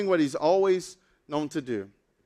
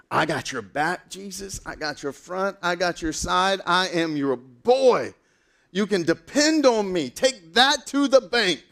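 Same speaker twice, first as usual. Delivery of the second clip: cocky loyalty pledge; 3 semitones higher, 3 dB louder, slower than usual. Acted. Peter boasts his loyalty to Jesus.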